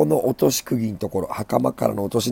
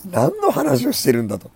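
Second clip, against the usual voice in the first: laughing; 14 semitones higher than usual. Real, not acted. Self-mocking laugh at own rambling.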